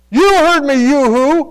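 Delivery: high, loud scolding mother voice; a mother calling then chiding her son; scolding mom. Retold or imitated. Mother scolding son for not answering, high and loud. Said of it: "And you know what she'd say?".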